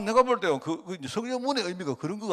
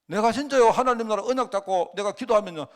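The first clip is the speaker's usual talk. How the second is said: loud preaching; 6 semitones higher, 6 dB louder than usual. Real, not acted. Preaching at full force.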